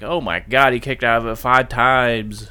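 slow, awed "five times"; mock amazed crowd. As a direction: imitate a stunned fan, drawing it out. Crowd reaction quoted.

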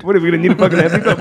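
rude. Retold or imitated. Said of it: "he said it like an asshole too".

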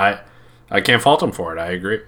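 ordinary talk

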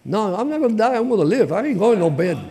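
fervent defiant declaration; defiant faith. Real, not acted. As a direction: refuse to give in, rising with fervour. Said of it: "I was crying out to God".

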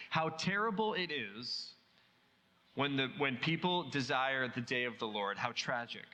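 slow, sorrowful "How tragic", the words drawn out and let fall; a grieving prophet, slowed and hushed at the end; slow mournful lament. Shown as a demonstration. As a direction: mourn over it slowly, shaking your head. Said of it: "to say something like this".

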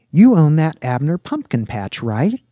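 light up as you place the person; eager young man, suddenly impressed; excited recognition. A narrator's reading. Virgil suddenly recognises Dax, eyes light up.

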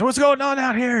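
high-pitched put-on voice; imitated intruding character. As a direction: act someone barging in to check.

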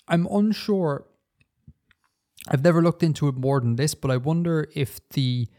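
talking while chewing; words round a mouthful of bread; mouth full. Real, not acted. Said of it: "Are you eating again?".

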